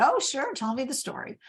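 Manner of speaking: fake cheerful. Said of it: "I just said".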